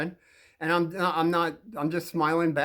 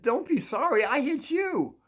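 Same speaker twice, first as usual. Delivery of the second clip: own reply; 10 semitones higher than usual. Retold or imitated. Narrator's own reply quoted.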